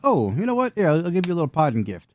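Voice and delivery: high, mock-generous villain voice; swooping high taunt. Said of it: "So he's like".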